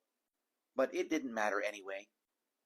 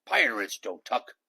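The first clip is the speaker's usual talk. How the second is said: louder, indignant bellow; pirate bellow; 7 dB louder than usual. A narrator's reading. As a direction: bellow it, offended. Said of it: "he bellowed".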